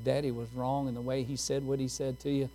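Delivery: soft, gentle father asking forgiveness; tender apology. Retold or imitated. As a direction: say it softly to a hurt child. Father apologizing to little daughter.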